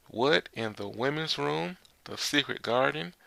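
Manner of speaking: shocked disbelief. Acted. Men jealous of Momonosuke's sleeping spot.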